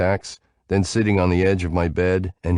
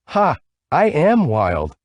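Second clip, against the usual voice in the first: excited; 10 semitones higher, 4 dB louder, slower than usual. A narrator's reading. Excited self-declaration.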